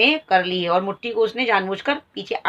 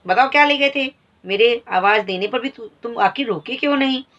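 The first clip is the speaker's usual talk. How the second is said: angry demand; 4 semitones higher than usual. Acted. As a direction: demand answers from the boy. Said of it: "मालती बोल रही है".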